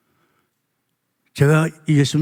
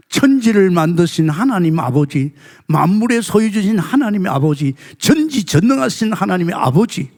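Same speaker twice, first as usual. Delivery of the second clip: each line climbs higher and louder; building praise litany; 4 semitones higher, 3 dB louder than usual. Real, not acted. Preacher proclaiming God's titles to the congregation in a rising crescendo.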